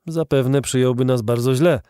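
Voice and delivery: usual speaking voice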